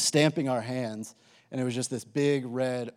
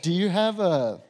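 put-on higher-pitched, half-hearted Irish accent; bad Irish accent; 4 semitones higher than usual. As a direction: attempt an Irish accent and don't quite get it. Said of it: "I can't do an Irish accent".

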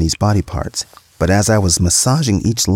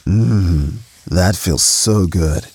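deep sexy voice; much slower than usual. Acted. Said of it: "he said in his deep, sexy voice".

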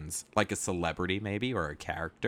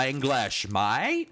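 broad mock Cockney; exaggerated, shaky attempt at Cockney; Cockney accent; 3 semitones higher, 4 dB louder, much slower than usual. Shown as a demonstration. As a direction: have a go at a rough Cockney accent. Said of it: "your best, like, Cockney accent".

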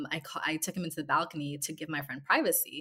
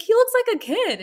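laughing disbelief; 13 dB louder than usual. Retold or imitated. Laughing retelling her own reply.

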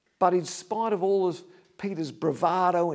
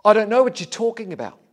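acted denial, higher and louder; raised-voice protest; retold denial; 5 semitones higher, 9 dB louder, faster than usual. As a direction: deny it loudly before everyone. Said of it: "But he denied it before them all".

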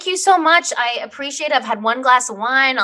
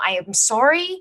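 Canadian-sounding apology, rising at the end; lightly Canadian-accented apology. Real, not acted. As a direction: slip into a Canadian "sorry". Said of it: "really Canadian".

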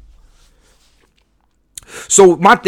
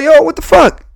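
mock outrage; 12 semitones higher, 4 dB louder than usual. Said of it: "I'll be like".

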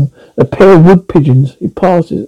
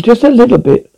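annoyed; 6 semitones higher than usual. A narrator's reading. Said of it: "He was annoyed and repeated".

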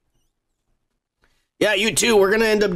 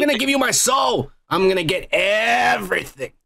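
raised, defiant shout; 5 semitones higher than usual. Pretend. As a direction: belt it out like a bold demand. Defiant boast about devil contract.

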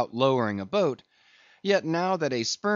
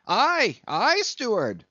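high, loud, drawn-out cry; raised, scolding shout; 10 semitones higher, 5 dB louder, slower than usual. A narrator's reading. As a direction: call out accusingly to the steward. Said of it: "cried Stubb".

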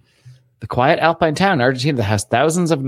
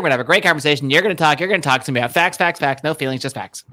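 lightly voiced fast pundit; Ben Shapiro impression; 2 semitones higher, faster than usual. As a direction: rattle it off like a pundit demanding facts. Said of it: "That's my Ben Shapiro".

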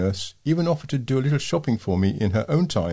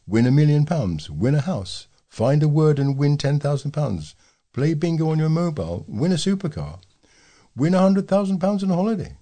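mock TV ad slogans; 5 semitones higher than usual. Letter writer mocking gambling ads as a hyped announcer.

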